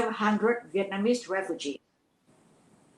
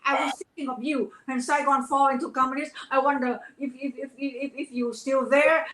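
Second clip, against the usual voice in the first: higher, gentle calming voice; soothing actress; 4 semitones higher than usual. Retold or imitated. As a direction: soothe a crying friend. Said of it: "And she said".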